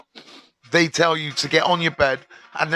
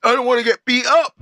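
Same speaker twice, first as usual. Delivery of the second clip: mock innocent excuse to the guard; 6 semitones higher than usual. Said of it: "This is what I said".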